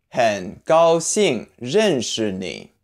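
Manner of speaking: 很高兴认识你 syllable by syllable, slowly; slow model reading. Shown as a demonstration. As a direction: spell out 很高兴认识你 slowly for learners. Teacher models phrase slowly, then naturally.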